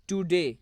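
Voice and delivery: টুডে with weight on the final ডে; teaching demo of টুডে, second syllable stressed. Shown as a demonstration. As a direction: lean on ডে in টুডে. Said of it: "ডে এর উপর জোর প্রদান করা হয়".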